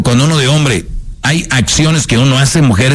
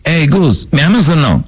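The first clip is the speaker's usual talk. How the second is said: put-on demanding girlfriend; 5 semitones higher than usual. Woman voice acted again.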